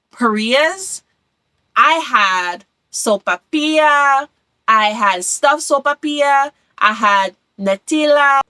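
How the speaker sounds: Spanish pronunciation of food names; Spanish accent. Shown as a demonstration. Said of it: "hopefully my Spanish accent doesn't offend anyone".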